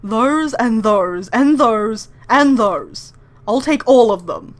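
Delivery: a hint of a greedy, pompous rich bird ordering, loud and slow; lightly voiced vain tycoon pointing at stock; Tori voice. Hoarding every bean at the counter, lightly voiced pompous Tori. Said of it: "I'm just gonna do this in the Tori voice".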